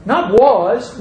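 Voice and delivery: "was" pitched high against "is"; high, emphatic "not was"; contrastive stress on WAS. Shown as a demonstration. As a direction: reject "was" with a high punch. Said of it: "wonderful thing about this word is".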